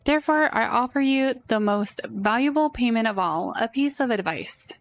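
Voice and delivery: lightly voiced lofty sage, unhurried; a hint of a pompous sage offering advice; wise old sage. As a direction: dispense wisdom like a grand old mentor. Sage tea guest gives advice.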